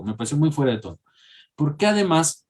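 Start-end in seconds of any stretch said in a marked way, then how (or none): 0.0-1.0 muy stressed, corrected from poco. Real, not acted. Teacher correcting herself, stressing muy. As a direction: lean on the word "muy". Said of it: "En realidad no poco".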